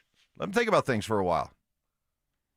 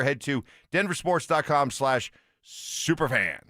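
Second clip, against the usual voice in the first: radio promo read. Acted. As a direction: sell the giveaway like a DJ. Reads a contest promo.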